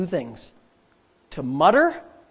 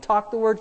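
"Talk the word" pitched up, firm; spoken-out emphasis; 4 dB quieter than usual. Shown as a demonstration. Preacher drilling day-and-night habit, "Talk the word" said out firmly. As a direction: say "Talk the word" out, raised against its answer. Chanted contrast of talk, think.

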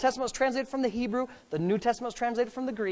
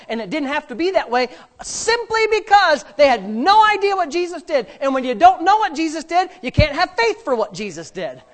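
raised, punchy preacher delivery; emphatic preaching; 4 semitones higher, 5 dB louder than usual. Real, not acted. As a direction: drive each point home to the congregation. Preaches with force.

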